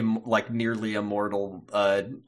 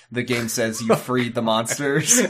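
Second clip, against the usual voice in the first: ordinary talk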